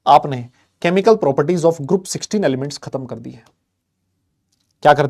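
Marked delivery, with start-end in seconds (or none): 0.1-3.4 slow proud announcement. Real, not acted. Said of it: "बधाई हो".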